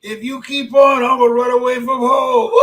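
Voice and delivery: loud, put-on threatening little voice; Tyrone the squirrel. Squirrel friend threatening to run away, loud put-on voice. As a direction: ham up a cranky critter. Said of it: "And Tyrone said".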